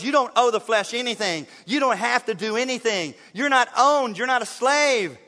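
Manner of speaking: ordinary talk, nothing marked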